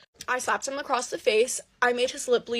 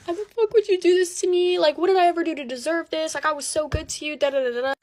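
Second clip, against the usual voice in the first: high-pitched retold wail, easing off; imitated tearful plea; 4 semitones higher than usual. Girlfriend crying to boyfriend over cheating, imitated tearful plea. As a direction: act out pleading while upset, settling down. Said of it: "I'm crying to him".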